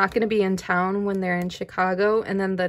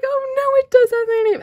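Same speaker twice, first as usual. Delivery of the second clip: retold panic; 7 dB louder than usual. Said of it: "I was like".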